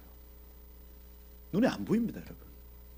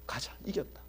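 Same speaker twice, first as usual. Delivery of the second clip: soldiers' rally whispered, much softer; whispered battle cry; 12 dB quieter than usual. Acted. Preacher voicing soldiers whispering their rally before battle. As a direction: breathe it out like a secret certainty. Soldiers' faith voiced quietly.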